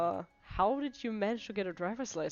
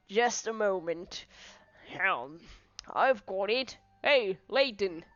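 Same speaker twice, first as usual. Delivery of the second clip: hesitant police inspector; 3 dB louder than usual. Acted. Inspector lets Layton look around, hesitant concession. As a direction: reluctantly give way in character.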